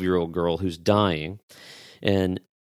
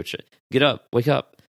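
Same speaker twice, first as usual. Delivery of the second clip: higher-pitched rousing call; parent's morning wake-up call; 5 semitones higher, 3 dB louder than usual. Acted. Parent waking a child in the morning, higher rousing call. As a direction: rouse a sleeping child. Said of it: "You would walk up and go".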